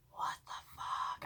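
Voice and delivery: drawn-out, hushed disbelief; stunned whisper. Retold or imitated. Recalling his eyes being elsewhere, stunned slow whisper. Retelling her stunned reaction.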